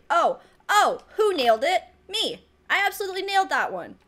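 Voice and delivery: gloating. Real, not acted. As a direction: crow about nailing it. Perfect serve, gloats.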